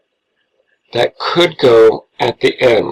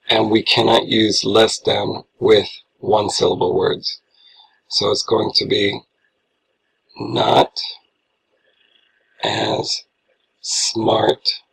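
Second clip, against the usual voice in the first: whisper; 4 dB quieter than usual. Real, not acted. Teacher drops to a whisper.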